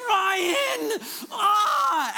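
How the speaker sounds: high-pitched, urgent cry of the name; excited calling out. Retold or imitated. Holy Spirit acted out calling the preacher, excited urging. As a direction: call out as if bursting to get his attention. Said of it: "he's just so excited".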